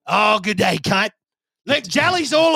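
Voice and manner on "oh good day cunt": mock Australian accent on good day. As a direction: greet like an Aussie mate in an Australian accent. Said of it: "Can you stop talking like that now?".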